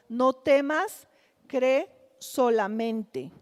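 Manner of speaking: unhurried, as if steadying a frightened father; gentle reassurance. Acted. Preacher voicing Jesus calming the frightened father, slow and gentle.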